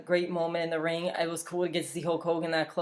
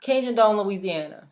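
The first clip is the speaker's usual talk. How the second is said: mocking caption; 3 semitones higher, 4 dB louder than usual.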